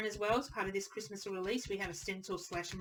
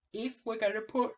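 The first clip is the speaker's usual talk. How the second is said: talking through a yawn; words stretched by a yawn; 4 semitones higher, 4 dB louder than usual. Real, not acted. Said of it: "I shouldn't be yawning".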